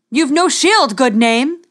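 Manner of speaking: high, loud mocking call. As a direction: taunt him across the field. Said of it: "called Reynard".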